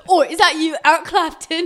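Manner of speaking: high, loud put-on girly voice; hammed-up wife asking if it's her husband; mock Patty voice. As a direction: ask it like a dreamy groupie. Mocking Patty greeting husband.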